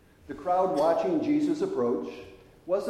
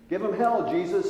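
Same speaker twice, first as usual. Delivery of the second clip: raised, louder jeering call; crowd shout; 4 semitones higher, 5 dB louder than usual. Retold or imitated. Heckler in the crowd urging Jesus on, raised mock shout. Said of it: "someone shouted".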